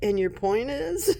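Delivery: unbothered, challenging comeback; sassy attitude. Acted. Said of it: "her attitude is so".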